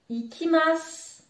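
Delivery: ikimasu said with a silent final u, ending on s; u final muet. Shown as a demonstration. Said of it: "Je dis bien ikimasu". (ikimasu sans prononcer le u final)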